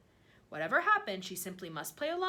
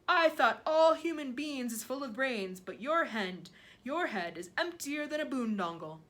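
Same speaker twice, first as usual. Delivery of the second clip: loud, higher giant scolding, easing off; scornful giant; 3 semitones higher, 6 dB louder than usual. A narrator's reading. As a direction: scold the little girl as the giant.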